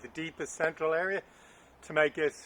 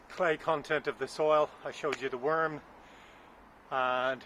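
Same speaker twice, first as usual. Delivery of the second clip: breathless from digging; puffing between words; out of breath. Real, not acted. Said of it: "sorry, I'm out of breath already".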